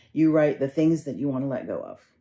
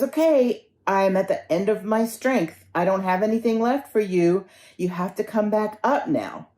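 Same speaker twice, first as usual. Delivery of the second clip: higher, insistent last appeal; desperate ultimatum; 6 semitones higher than usual. Acted. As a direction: act out reaching the end of your strength. Traveler at end of strength.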